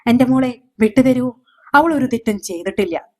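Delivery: a father begging for his daughter; mildly tearful desperate appeal; crying plea. A narrator's reading. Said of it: "അച്ഛൻ കരഞ്ഞു".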